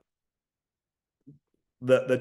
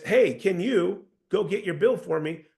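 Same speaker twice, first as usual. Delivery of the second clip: "bill for me" asked on a raised pitch; higher, permission-seeking question; upward tonality; 4 semitones higher than usual. Shown as a demonstration. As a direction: ask "can you go" as if seeking permission. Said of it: "All of it was an upward tonality".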